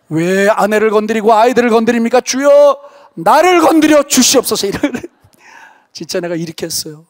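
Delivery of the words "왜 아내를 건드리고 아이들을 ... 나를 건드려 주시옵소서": loud, high, desperate cry of prayer; loud and higher, challenging God to strike him instead. Retold or imitated. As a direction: hurl the plea upward with all your force. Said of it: "내가 막 삿대질하면서 기도했어요".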